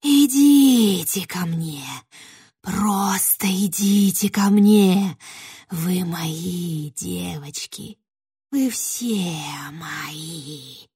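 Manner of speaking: slow, coaxing, fading to a whisper; rustling witch. Acted. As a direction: lure them in, then breathe the end. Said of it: "шелестела ведьма".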